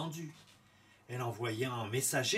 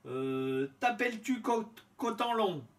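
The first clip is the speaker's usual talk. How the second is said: higher, hopeful guess; queen's voice; 8 semitones higher than usual. A narrator's reading. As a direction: ask the name hopefully, higher. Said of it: "elle fit demander".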